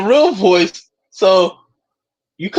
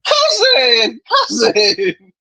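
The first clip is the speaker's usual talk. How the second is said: drawn-out mock Baltimore accent; 6 semitones higher, much slower than usual. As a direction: imitate Baltimore talk sounding nearly British. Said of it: "if you dropped a Baltimore person".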